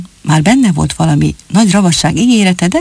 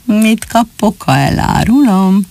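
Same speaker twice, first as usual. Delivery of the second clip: mysterious smile; 3 semitones higher, slower than usual. Acted. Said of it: "rejtélyesen elmosolyodott".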